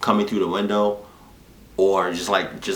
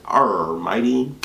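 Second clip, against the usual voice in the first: lightly voiced clumsy pirate, slow on "Arr, Mighty"; half-hearted pirate lure, barely changed voice; 2 semitones higher than usual. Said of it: "I don't know how to talk like a pirate".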